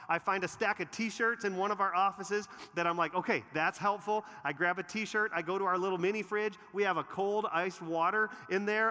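high and loud, driving the story forward; fired-up pulpit storytelling; energetic preaching. Acted.

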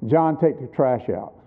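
father tells his son to take the trash out, no room to argue; firm command. Retold or imitated. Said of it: "you could tell in my tone of voice it really wasn't a suggestion".

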